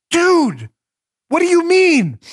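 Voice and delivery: high, drawn-out exasperated plea. Acted. Baffled customer to the firearms salesman, exasperated. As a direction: play a customer at the end of their patience. Acted customer losing patience with dealer.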